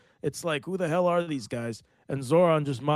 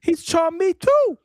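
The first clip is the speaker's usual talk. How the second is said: put-on high, loud, slow New York accent parody; slow mock New York accent; New York accent mimic; 9 dB louder, slower than usual. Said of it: "Again, he's ch".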